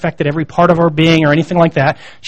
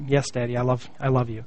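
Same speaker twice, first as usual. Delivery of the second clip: put-on soft, much quieter little-girl voice; toddler's reply; 6 semitones lower, 15 dB quieter than usual. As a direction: answer meekly like a small child. Toddler answering her father.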